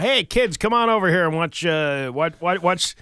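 mock calling out. Parent calling kids over to watch a film, mock cheery call.

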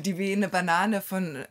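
"Die wehende Banane" said through laughter; laughing. Shown as a demonstration. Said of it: "repeats while laughing".

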